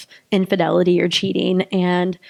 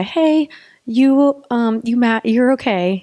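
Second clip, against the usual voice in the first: higher-pitched, playful comforting; mock reassurance; 4 semitones higher, 3 dB louder, slower than usual. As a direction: gently console a little guy, tongue in cheek. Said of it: "just tell that little guy".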